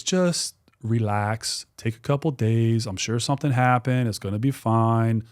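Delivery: slow, even-voiced soothing; calm reassurance. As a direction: talk a friend down, taking it slowly. Retelling friend calming him down.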